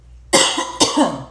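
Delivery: harsh choking cough; coughing fit. Real, not acted. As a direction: cough something down the wrong pipe. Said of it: "I'm so sorry".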